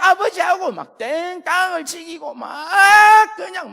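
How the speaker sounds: high, slow crying shout; 울부짖는 떼쓰기. Retold or imitated. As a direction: wail it out like a child throwing a tantrum. (울며 소리치는 떼쓰기)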